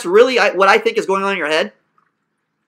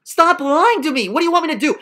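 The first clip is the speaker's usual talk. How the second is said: stern scolding; 5 semitones higher than usual. Real, not acted. Coach scolding the student.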